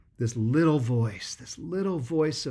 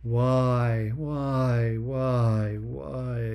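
little voice of doubt; slower than usual. Acted. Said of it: "the little voice says".

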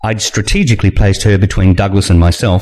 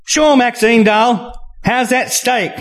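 much higher, sugary hostess voice; sweet hostess; slower than usual. Acted. Julianne answering Maxine's demand, much higher and syrupy. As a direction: humour the difficult guest sweetly.

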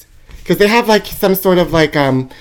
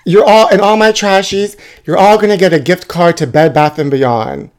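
normal talking voice

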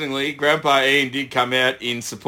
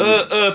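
mock rowing grunts; 6 semitones higher than usual. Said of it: "just sit on and go".

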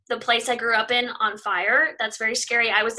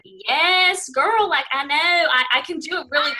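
a light Southern twang, a bit higher and louder; put-on Southern accent; 4 semitones higher, 4 dB louder than usual. Mimicking a Kentuckian with a thick accent, in a light Southern accent. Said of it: "talking to someone with a really thick accent".

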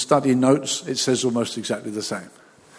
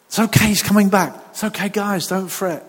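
higher, louder, soothing the disciples; calm them down, he's coming back; lightly voiced comforting Jesus; reassuring Jesus; 5 semitones higher, 3 dB louder than usual.

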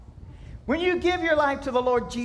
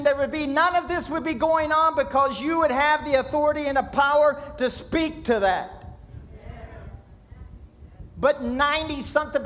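preaching; 2 semitones higher than usual. Acted. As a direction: preach it with rising fervor to the congregation. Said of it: "A little bit of preach".

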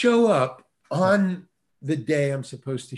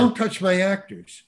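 imitated startled holler, pitched up; 4 semitones higher than usual. Director startled by casting director handling his actor, retold holler. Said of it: "he was just startled".

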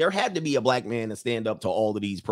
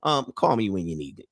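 casual lover leaving; 8 semitones lower than usual. Acted. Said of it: "And he's like".

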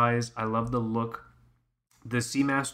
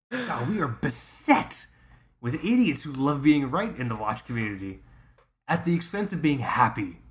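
mock exasperated rant; 2 semitones higher than usual. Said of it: "I got very upset".

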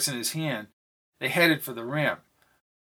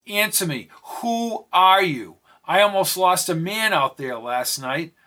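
growing angry; 3 semitones higher than usual. Acted. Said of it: "growing angry".

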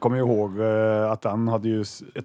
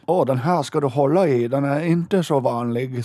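put-on German-accented Swedish, pitched up and slowing; Hans Hattvig impression; 4 semitones higher, 4 dB louder than usual. Podcaster quoting Hans on his rare film, German-accented imitation. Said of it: "bra imitation".

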